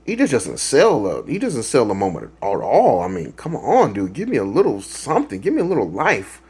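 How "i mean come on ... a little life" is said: pleading upward, pitch swinging high; exasperated plea. Real, not acted. Reviewer pleading with the stiff lead actor, exasperated. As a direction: beg for more, exasperated.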